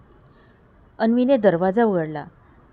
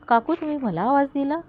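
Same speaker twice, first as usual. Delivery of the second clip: put-on higher girlish voice; young girl; 6 semitones higher than usual. Girl answers Anvi's mother from the road, voiced higher. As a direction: speak as a small girl calling back.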